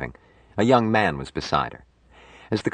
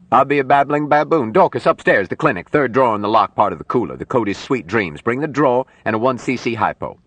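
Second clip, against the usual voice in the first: loud, raised, rapid-fire commands; excited urgent orders; 7 semitones higher, 4 dB louder than usual. Acted. Doctor sends assistant for emergency drug, urgent. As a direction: burst out astonished, then order briskly.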